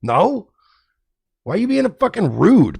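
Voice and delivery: high, offended whoa; high, offended mock outrage; indignant innocent. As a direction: bristle at the insult. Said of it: "I go".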